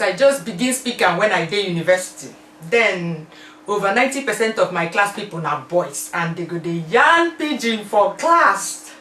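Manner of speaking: loud, lively Nigerian Pidgin story. Shown as a demonstration. Answering in Nigerian Pidgin to show she can, loud and lively. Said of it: "Do you speak Pidgin English?".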